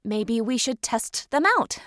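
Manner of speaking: plain reading voice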